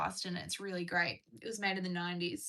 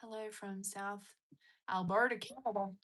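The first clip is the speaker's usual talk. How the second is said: a hint of southern accent slipping in; accidental southern accent. Real, not acted. Reading a viewer's greeting from Alberta, light southern accent. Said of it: "said that in a southern accent".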